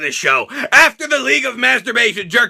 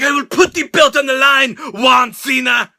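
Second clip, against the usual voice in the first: mock accented challenger; Del Rio impression. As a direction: drag out Juan Cena like a taunt. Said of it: "was like".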